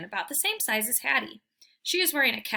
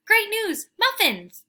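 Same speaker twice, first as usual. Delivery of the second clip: much higher, loud burst of joy; excited announcement; 12 semitones higher, 8 dB louder, slower than usual. Acted. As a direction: blurt out the good news. Dog announces muffins.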